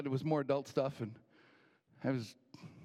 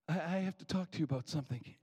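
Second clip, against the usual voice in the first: retold man's stammered opening, little raised; hesitant request; 2 semitones higher than usual. Man short of money approaches the waitress, hesitant request. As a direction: start haltingly, as the retold diner. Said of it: "I heard the man behind me say".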